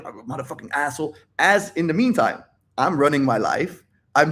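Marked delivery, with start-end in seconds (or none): 0.1-1.2 quick, softer grumble; mock angry brooding. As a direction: imitate stewing under the breath. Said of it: "being angry, thinking about it".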